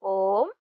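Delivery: ओम with the ओ stretched very long; prolonged vowel. Shown as a demonstration. Teacher showing pluta, ओम held extra long. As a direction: hold the ओ in ओम well past a long vowel. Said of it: "उन्हें प्लुत स्वर कहा जाता है".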